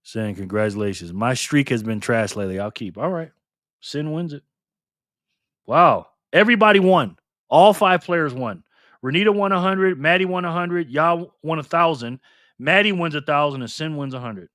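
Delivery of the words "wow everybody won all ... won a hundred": loud, thrilled announcement; excited announcing. Real, not acted. Host announces all players won, loud and thrilled. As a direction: announce the big result with hype.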